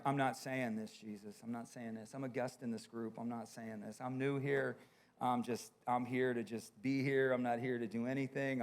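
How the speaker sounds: quiet, half-swallowed pleading to God; hushed inner protest. Retold or imitated. Pastor silently pleading with the Lord in worship, hushed. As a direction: murmur it low like arguing inside your head. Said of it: "This is my inner monologue".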